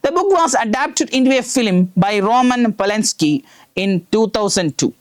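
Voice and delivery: very slow, word-by-word classroom reading; reading aloud. Shown as a demonstration. Teacher reading the textbook passage aloud to students, very slowly. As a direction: read it out slowly so students can follow. Reads English text to class.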